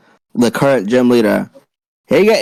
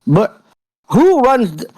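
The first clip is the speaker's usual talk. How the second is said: put-on British accent; 2 semitones higher than usual. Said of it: "distinct yet familiar accent".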